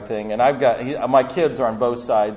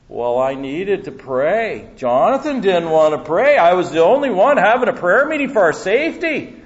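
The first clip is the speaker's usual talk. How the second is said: put-on accent like Rob's, climbing higher and louder; 5 semitones higher, 4 dB louder than usual. Mimicking Rob's accent after being asked why he prayed on a roller coaster, indignant. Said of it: "see if I can do the accent".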